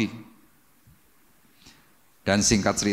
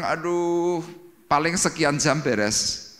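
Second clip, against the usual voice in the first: mock moaning; 5 semitones higher, much slower than usual. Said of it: "Anda cuma ngereng-ngereng".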